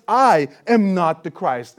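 slow, firm, stress on I; emphatic denial stressing I. Retold or imitated. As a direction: land every word of the denial. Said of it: "in no uncertain terms".

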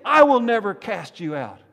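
forceful reassurance, high and loud; Jesus' emphatic answer. Acted. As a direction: answer the outburst with equal force. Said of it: "The response of Jesus".

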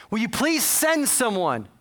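imitating a stranded caller's appeal; retold urgent plea. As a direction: plead for help, lightly acted. Caller pleading with dispatcher for help.

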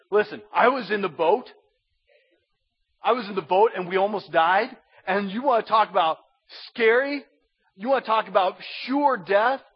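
insistent Peter. Acted. Apostle recalls nearly dying in the boat, insistent. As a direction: press the point like an eyewitness. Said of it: "It's like Peter saying".

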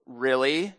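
low, soft questioning rise; quiet, doubting challenge to a student; challenging question. Retold or imitated. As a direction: question him quietly with a lifting end. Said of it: "immediately shot a look at him".

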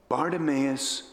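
low, slow, gentle question; smile in voice. Acted. Jesus asking kneeling Bartimaeus, gently smiling voice. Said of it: "with a smile in his voice".

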